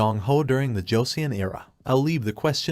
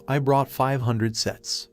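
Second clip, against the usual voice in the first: proud; slower than usual. Acted. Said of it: "the wholesaler replied proudly".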